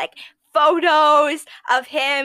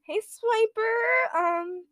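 high, drawn-out mock flirting; hammed-up flirty greeting, pitched high; thirsting for Swiper; 8 semitones higher, slower than usual. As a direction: coo it as a joking come-on, half laughing. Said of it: "and then be thirsting for Swiper".

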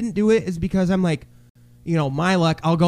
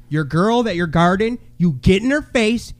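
building from firm talk to a raised, high shout; retold coaching yell; 4 semitones higher than usual. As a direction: drill it into her, voice climbing. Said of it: "And I, like, yelled at".

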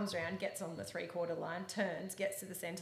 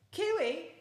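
higher, louder call across the arena; 11 semitones higher, 7 dB louder than usual. Retold or imitated. Coach calls the trainer next door, loud higher call.

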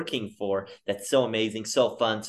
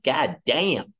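dismayed curse. Retold or imitated. Hearing the strict rules, dismayed. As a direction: groan it under your breath. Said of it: "And I'm like".

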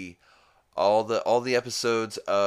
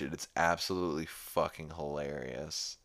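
normal talking voice

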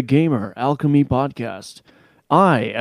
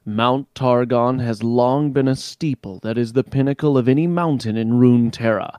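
dramatic narration. Acted. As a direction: set the mystical scene slowly. Narrates lore intro slowly.

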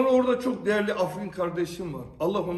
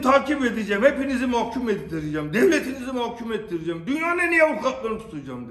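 shouting; 5 semitones higher, 5 dB louder, faster than usual. Retold or imitated. Angry threat retold to officials.

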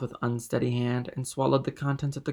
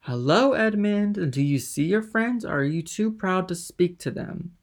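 put-on higher, louder drunken hail; calling out; 7 semitones higher, 4 dB louder than usual. A narrator's reading. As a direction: shout it across to Dantès. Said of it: "half rising with his fist on the table".

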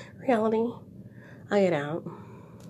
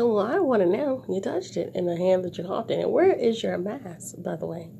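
a touch of a stern mom, firm and louder; scolding mom; 2 semitones higher, 3 dB louder than usual. Retold or imitated. To the coughing man over her coffee, scolding mom. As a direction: scold him like a mom would. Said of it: "I turned into a whole mom".

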